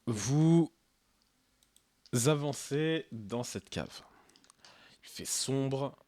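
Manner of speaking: villain voice. Acted. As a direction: drawl it out like a storybook villain. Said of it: "t'as pris ta voix de méchant".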